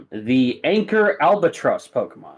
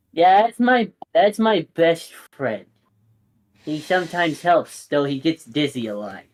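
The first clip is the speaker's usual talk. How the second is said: put-on eager kid; 4 semitones higher than usual. Otto proudly introduces his Pokemon, higher excited kid voice. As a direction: show off your best friend.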